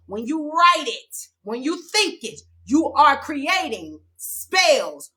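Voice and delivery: heated preaching, pressing each word; getting heated about spell work. Real, not acted. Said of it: "I'm getting a little heated".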